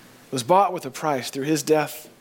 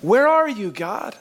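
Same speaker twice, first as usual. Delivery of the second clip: anguished cry; 6 semitones higher, slower than usual. Retold or imitated. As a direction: cry it out to God in despair. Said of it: "You ever found yourself saying that".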